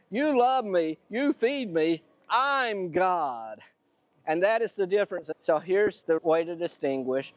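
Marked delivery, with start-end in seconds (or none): 0.1-3.6 higher start, settling into a self-satisfied claim; lightly voiced conceited cat, stressing I'M; self-important cat. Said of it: "But the kitty cat says".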